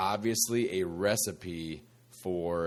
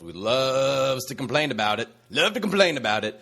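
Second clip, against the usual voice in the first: mock whiny complainer, higher; a hint of a whiny grumbler; complainy pants voice; 4 semitones higher than usual. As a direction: lightly whine it like a complainer. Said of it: "I'm gonna use my complainy pants voice".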